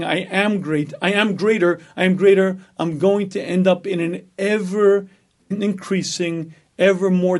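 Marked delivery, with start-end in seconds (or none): 0.0-2.6 boastful. Acted. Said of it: "answer that voice by saying".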